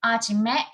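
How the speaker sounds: "아지매" as a-ji-mae, open middle syllable; Busan-dialect "아지매" without a final consonant in the middle; Busan pronunciation. Shown as a demonstration. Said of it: "Busan dialect".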